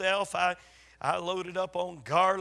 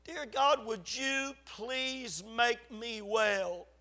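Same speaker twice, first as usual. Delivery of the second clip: retold plea to God, higher and slow; retold child's prayer; 4 semitones higher, slower than usual. Five-year-old boy praying to God, retold pleading. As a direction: plead with God, drawing the words out. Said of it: "I remember saying".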